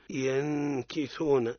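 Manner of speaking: ينكثون with the ن hidden before ك, slow ghunna; ikhfa example. Shown as a demonstration. Teacher giving the kaf example, slow and held. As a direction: hold the hidden nun in ينكثون. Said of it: "مثال للكاف".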